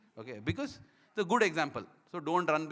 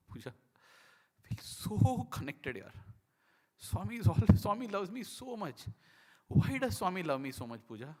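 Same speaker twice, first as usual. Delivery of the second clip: drawn-out, emotional wail, re-enacted; retold overwhelmed feeling; 3 semitones higher than usual. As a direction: plead in wonder, as if overcome. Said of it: "Overwhelming it was".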